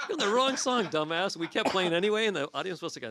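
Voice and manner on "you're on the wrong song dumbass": high, loud mock yell at a bandmate; exasperated shout, acted out in the retelling; retold yell. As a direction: call out the mistake over the band. Retold yelling at guitarist mid-song.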